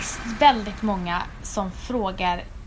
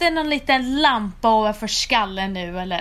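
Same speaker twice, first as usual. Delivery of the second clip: ordinary talk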